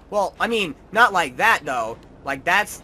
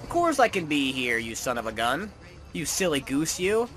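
mock reply; 4 semitones higher than usual. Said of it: "And I'll be like".

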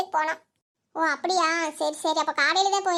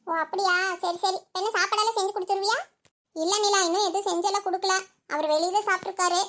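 usual speaking voice

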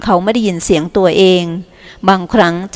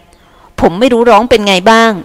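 still worried; 3 semitones higher, 3 dB louder, slower than usual. Acted. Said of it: "เขายังไม่คลายวิตก".

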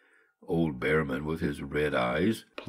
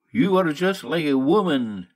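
put-on louder, Behrman's German accent yelling; yelled; 8 semitones higher, 5 dB louder than usual. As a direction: snap back at her in a German accent. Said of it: "yelled Behrman".

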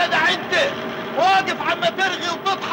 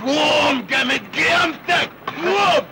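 shouted order. Acted. Foreman yelling at the new worker to get up, shouting.

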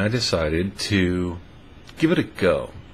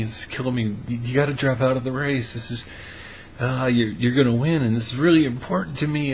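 higher, fast, nervous begging; anxious pleading; 4 semitones higher, faster than usual. Retold or imitated. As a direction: plead with her to quit, all in a rush. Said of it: "and she was like".

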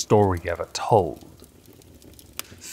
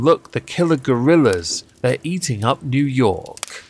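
B-movie alarm; 4 semitones higher than usual. Acted. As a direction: cry out like a panicked bit-part actor. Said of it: "I actually got to talk, saying".

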